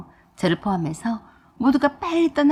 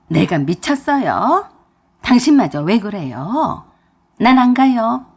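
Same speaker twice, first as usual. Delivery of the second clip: louder, defiant refusal; an obstinate mother-in-law refusing to go home; stubborn refusal; 5 dB louder than usual. Acted. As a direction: dig in your heels, loud.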